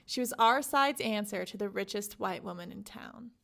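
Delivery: measured reading of a quoted passage; steady literary read-aloud; book reading. Acted. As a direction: read the excerpt with care. Reads a book excerpt aloud.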